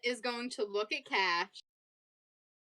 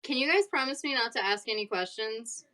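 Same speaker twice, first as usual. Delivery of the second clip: resigned sigh. Acted. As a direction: say it like someone reluctantly giving in. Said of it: "Arsene just sighs".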